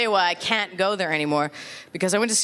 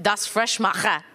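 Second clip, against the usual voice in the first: mock German slogan; slower than usual. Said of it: "new ideas for the Mentos candy tablet".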